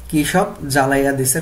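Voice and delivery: Bengali village dialect, quoted as an example; regional dialect. Shown as a demonstration. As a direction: repeat the regional Bengali dialect form for students. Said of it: "গল্প থেকে আঞ্চলিক বাক্য দেখি".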